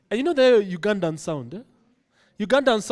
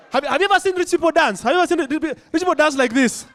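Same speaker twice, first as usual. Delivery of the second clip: incredulous question; 8 semitones higher, 4 dB louder than usual. Real, not acted. Mock rich people's dancing.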